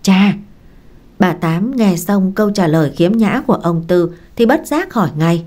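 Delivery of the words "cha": a loud startled call; startled cry. Acted. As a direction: cry out in alarm. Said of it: "giật mình kêu".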